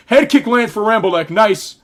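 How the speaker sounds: excited call. Real, not acted. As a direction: call the kick as it lands. Excited live call of head kick.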